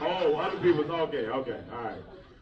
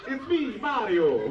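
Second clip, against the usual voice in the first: mock Mario; 5 semitones higher, 4 dB louder, slower than usual. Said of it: "What kind of laugh was that?".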